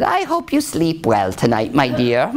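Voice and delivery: lightly voiced queen, dropping low at the end; sly queen. Queen bidding the princess good night, slyly. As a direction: wish it slyly, with a chuckle after. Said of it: "And the queen said".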